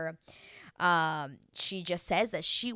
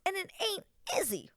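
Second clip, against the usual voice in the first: hushed, breathy confiding whisper; whispered aside; 13 semitones higher than usual. Real, not acted. Vlogger whispering to viewers about Stacy's type. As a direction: let the viewers in on a secret.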